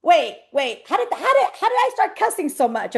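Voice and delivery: playful startled "wait, wait"; mock surprise. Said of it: "You're like".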